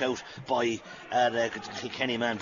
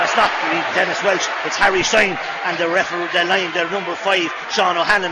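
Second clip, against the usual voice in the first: louder, quick correction over the crowd; excited call; 3 semitones higher, 5 dB louder than usual. Real, not acted. Commentator correcting who was fouled, loud and excited. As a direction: set the record straight mid-play.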